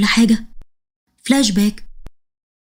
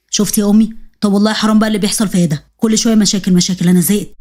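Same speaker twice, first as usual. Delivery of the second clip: low, weary complaint; the husband grumbling to his mother; low-voiced exasperated son; fed-up husband; 3 semitones lower than usual.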